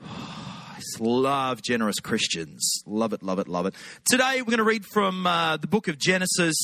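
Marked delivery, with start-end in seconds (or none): 0.1-3.7 low, slow and relishing; heartfelt, drawn-out appreciation; fond savouring. Real, not acted. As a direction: draw out the love, then murmur it low. Savouring fondness for generous Christians.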